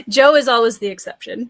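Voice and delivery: said through laughter; laughing. Real, not acted. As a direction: laugh while you say it. Laughing at the Joe joke.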